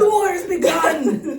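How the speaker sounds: high, loud, drawn-out proclamation; slow, over-the-top war announcement; mock battle cry. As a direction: holler it like a hammed-up herald. Repeats the quote as mock proclamation.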